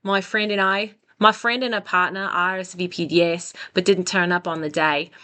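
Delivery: attempted light Australian accent. Shown as a demonstration. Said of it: "try to read this with an Australian accent".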